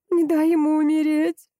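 a mother crying out over her dying son; desperate exclamation. A narrator's reading. Wife cries out, begging him to save the child. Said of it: "воскликнула Митцы".

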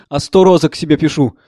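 normal talking voice

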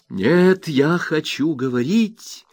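high and loud, slow furious accusation; Rosa, furious. A narrator's reading. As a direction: hammer each word into the mother. Cuts David off. (Роза в ярости бросает обвинение матери)

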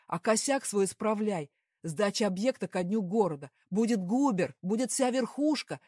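an all-out boss's rage; furious shouting. A narrator's reading. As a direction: scream threats at the guilty employee. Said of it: "Перешёл на крик начальник".

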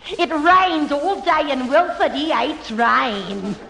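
Cockney housewife in a shelter telling of her son; hammed-up Cockney worry, gasping; Cockney woman. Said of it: "I can do a Cockney".

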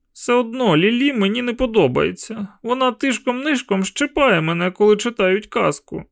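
put-on a boy sulking about Lilly; grumbling boy. A narrator's reading.

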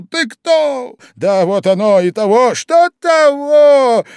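высоко, громко, растягивая слова; визгливо издевается над Прохарчиным; крик. Acted. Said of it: "завопил в выступлении Зимовейкин". (Зимовейкин дразнит Прохарчина криком)

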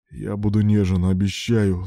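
plain reading voice

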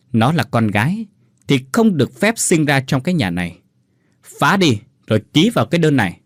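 fast, hard menacing order; husband ordering abortion; threatening command. Acted. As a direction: jab words into her face. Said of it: "dí tay vào mặt Nguyệt rồi bảo".

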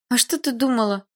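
high-pitched, dismissive question; scoffing. A narrator's reading. Friend scoffs at scared girl, high and dismissive. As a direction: scoff at her surprise. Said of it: "фыркнула Дилара".

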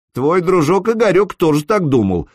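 a sly grin in the voice; smirking. A narrator's reading. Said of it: "ухмыльнулся Санёк".

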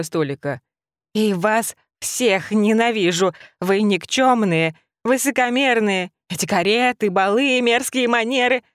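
hateful rabbit rant. Acted. Rabbit raging at the empire's manners. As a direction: spit out every insult.

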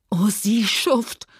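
slow, whispered in despair; a hopeless, breathless whisper; desperate. A narrator's reading. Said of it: "rief sie verzweifelt".

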